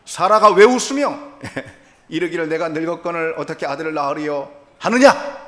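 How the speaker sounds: preacher voicing God's indignant rebuke of Sarah; God bristling. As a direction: voice God snapping back in indignation. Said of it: "하나님께서 발끈하시며".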